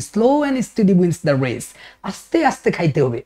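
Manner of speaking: very slow, each word stretched out; slowly. Shown as a demonstration. Teacher slowing down for viewers who can't follow, drawn out. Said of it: "আস্তে আস্তে বলতে হবে".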